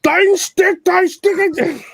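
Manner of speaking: high squeaky fake German; mock German accent. Mock German shouting, much higher.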